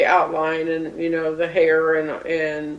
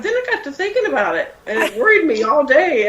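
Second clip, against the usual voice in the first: high, fast, laughing words; 6 semitones higher, faster than usual. Real, not acted. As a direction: giggle through the line. Laughing at own worry.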